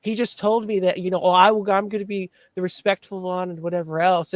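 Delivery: mocking imitation. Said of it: "you're like".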